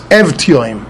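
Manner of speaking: Evtioim slowly, short e, sounded v, hard t; measured model "Evtioim" opening on eh; correct pronunciation. Shown as a demonstration. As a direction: say "Evtioim" slowly as ev-tee-oym. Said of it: "the Aleph is with a Segel".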